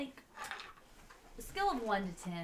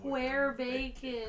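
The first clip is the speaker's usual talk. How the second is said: slow loud caveman question; dumb creature voice; 6 semitones higher, 6 dB louder, slower than usual. Acted. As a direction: ask like a confused brute. Repeat, bigger.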